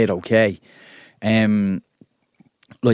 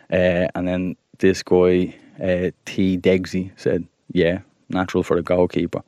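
calm TikTok voice; 3 semitones lower than usual. Acted. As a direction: keep it calm and even. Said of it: "very calm TikTok voice".

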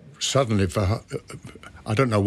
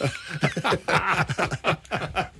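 high, rolling chuckle; hearty laugh; 8 semitones higher than usual. Real, not acted. Actor joking about a colleague who is all laughs, hearty laugh. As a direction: burst into a sustained, high laugh.

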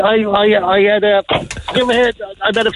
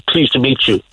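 lower, lightly Scottish voice; a deep touch of Scottish accent; Sean Connery; 6 semitones lower than usual. Retold or imitated. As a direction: imitate a deep Scottish greeting. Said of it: "with that Scottish deep voice".

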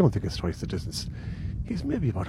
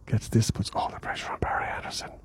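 whispering; 2 semitones lower, 6 dB quieter than usual. Real, not acted. Hushed golf commentary beside green.

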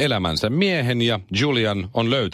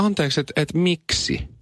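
higher, mock-baffled self-quote; playing his own disbelief at his wife; indignant "excuse me, why?"; 6 semitones higher than usual. Husband retelling his startled reply to his wife, mock-indignant. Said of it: "sit mä olin silleen".

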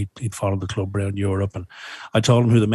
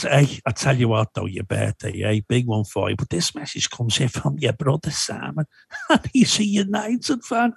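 imitating Phil Thompson; 3 semitones higher than usual. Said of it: "he just stopped me and went".

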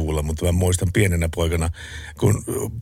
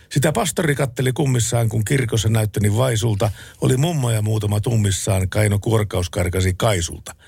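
spoken-verse recital, pitch easing down line by line; reciting lyrics. Acted. Radio host recites remembered jenkka lyrics to co-host, lightly rhythmic recitation.

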